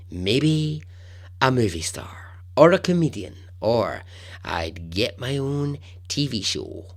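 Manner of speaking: put-on slipping in and out of a Carolina accent; only partly commit to the Carolina accent; half-done Carolina accent. Podcaster quoting Wisnett bragging about fame, half Carolina accent. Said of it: "I'm kind of partly doing his accent".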